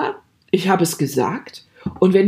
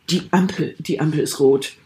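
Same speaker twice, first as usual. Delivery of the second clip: irritated demo; 4 semitones lower than usual. Shown as a demonstration. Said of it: "So nach dem Motto, „Halt die Gosche".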